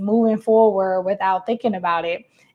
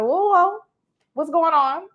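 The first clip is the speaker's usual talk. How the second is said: mock startled; 7 semitones higher than usual. Inner voice startled.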